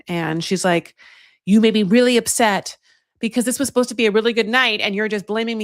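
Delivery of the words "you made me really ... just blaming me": raised, higher mock-argument voice; upset accusation. Woman retelling her date's row to the producers, upset. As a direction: hurl the blame across, retelling it. Acted quarrel of a couple.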